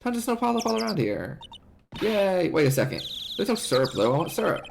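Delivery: lightly voiced, keen for a treat; eager sidekick. Voices Maya excited about snow cones.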